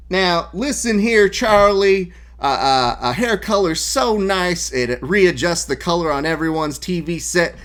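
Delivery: high, loud hammed-up announcer impression; fake Chael Sonnen voice. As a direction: pitch it way up and ham it. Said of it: "the fake Chael voice".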